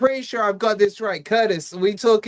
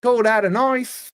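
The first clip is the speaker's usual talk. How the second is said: put-on Australian accent; 4 semitones higher than usual. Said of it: "given you a clue with the accent".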